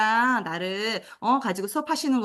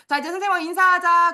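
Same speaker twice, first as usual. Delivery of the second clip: bright teacher call; 9 semitones higher, 6 dB louder than usual. Shown as a demonstration. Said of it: "다음 주에 갔을 때는".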